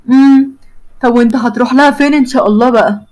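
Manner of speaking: a jealous wife's pointed challenge; sharp. Acted. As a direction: snap the question at him suspiciously. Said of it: "بتبص له بحدة وهي بتقول له".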